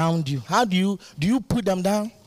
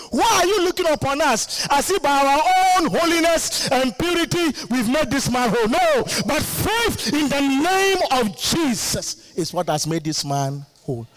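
high, stretched out apostle's rebuke; Peter preaching; 7 semitones higher than usual. Retold or imitated. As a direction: proclaim it like Peter at the gate.

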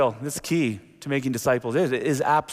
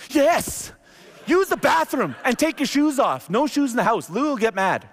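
high, eager, drawn-out burst of relief; overjoyed he finally asked; high thrilled shouted welcome; excited yes; 9 semitones higher, slower than usual. Retold or imitated. Finally gets Nico inside.

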